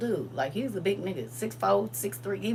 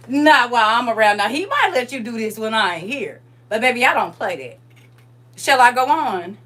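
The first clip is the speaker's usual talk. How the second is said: retold telling-off; 3 semitones higher, 6 dB louder than usual.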